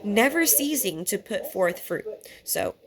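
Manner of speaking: speaking through hiccups; hiccuping between words. Real, not acted. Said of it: "Ah, hiccup, the hiccups".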